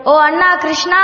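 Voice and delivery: loud, high desperate call. Acted. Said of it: "గట్టిగా అరిచాడు".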